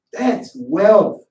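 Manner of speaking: "That's wealth." shouted out, stress on wealth; preacher's loud "That's wealth.". Shown as a demonstration.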